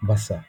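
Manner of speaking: "ভাসা" with an initial English V. Shown as a demonstration. Teacher likens sound to English, V sound. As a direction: say "ভাসা" with teeth on lip for V. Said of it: "ভি এর মতন আর কি".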